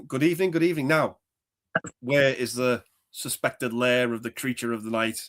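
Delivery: lightly voiced theatrical host; a hint of a grand horror actor; Peter Vincent impression. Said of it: "doing impressions of Peter Vincent".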